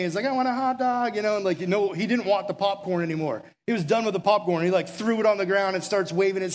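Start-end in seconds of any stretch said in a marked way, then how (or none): 0.2-1.2 imitating a demanding kid. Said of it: "starts screaming and pointing at me".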